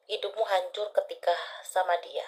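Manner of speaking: breathy hushed reveal; quiet confiding whisper. Real, not acted. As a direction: whisper the hard truth. Reader revealing painful truth.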